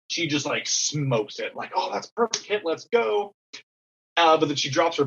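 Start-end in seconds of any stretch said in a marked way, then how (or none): 1.8-3.3 retold cheer. Coach cheering a great hit.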